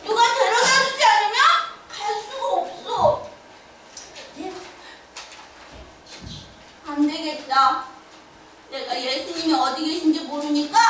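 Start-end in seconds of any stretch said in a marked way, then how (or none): none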